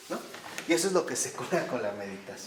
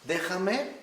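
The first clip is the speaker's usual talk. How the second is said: tender voice of God; 3 semitones higher, slower than usual. Retold or imitated. The Lord tenderly pleading with his hurting child, slow and gentle. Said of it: "el Señor nos ve y con lágrimas en los ojos".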